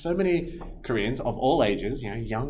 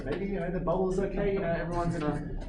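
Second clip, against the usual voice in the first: forced calm; 5 semitones higher than usual. Retold or imitated. Inner voice telling himself fine.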